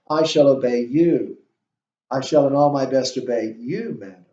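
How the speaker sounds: each "you" singled out with emphasis; pointed weight on the word "you"; stress on YOU. Shown as a demonstration. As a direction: lean on "you" both times. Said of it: "you can always emphasize that word you".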